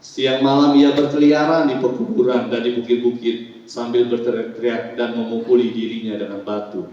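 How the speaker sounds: projected Bible reading for a congregation; formal recitation, settling at the end; scripture reading. Acted. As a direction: read the verse out clearly. Pastor reads scripture aloud.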